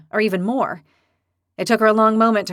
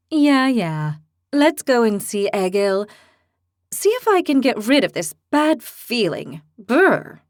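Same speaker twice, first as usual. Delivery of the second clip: put-on fierce young heroine; 3 semitones higher, 3 dB louder, slower than usual. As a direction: declare it like a hotheaded girl. Lily dismissive.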